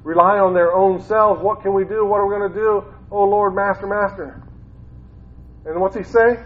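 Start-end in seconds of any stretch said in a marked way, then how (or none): 1.4-4.4 mock panic. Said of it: "They're starting to panic".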